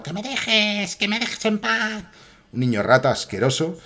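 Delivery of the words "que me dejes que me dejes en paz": high mock child's yell; imitating a screaming kid. Streamer mimics the neighbour's kid, high mock child's yell. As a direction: whine it like a bratty kid shouting. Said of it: "la voz del niño gritando".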